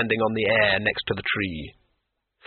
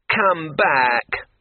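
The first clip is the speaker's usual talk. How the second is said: louder, higher desperate call; the demon screams after the falling Rincewind, loud and high; screamed; 5 semitones higher, 4 dB louder than usual. A narrator's reading. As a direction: yell after someone falling away. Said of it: "screamed the demon".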